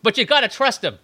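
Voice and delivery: pleading TV drama line; previously on recap. Pretend. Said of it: "forgot to mention in the previously".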